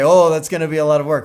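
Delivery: whiny protest, tossed off fast; imitating a reluctant tech. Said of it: "they will often say".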